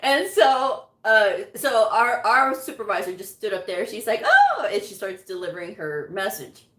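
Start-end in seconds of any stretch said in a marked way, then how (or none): 4.2-4.7 a much higher, louder exclaimed "Oh"; mock surprised oh. Supervisor stepping up to present, a high startled oh. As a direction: squeak it out like a startled boss.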